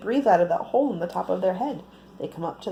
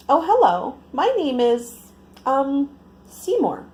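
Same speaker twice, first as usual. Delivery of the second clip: shy greeting; 5 semitones higher, 5 dB louder than usual. A narrator's reading. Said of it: "Seymour said shyly".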